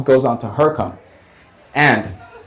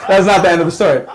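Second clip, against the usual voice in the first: laughing; 5 semitones higher, faster than usual. Real, not acted. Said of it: "repeats line, laughing".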